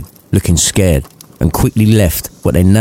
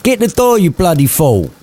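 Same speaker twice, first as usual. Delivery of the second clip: angry bark; 9 semitones higher than usual. Acted. Scrooge barking order.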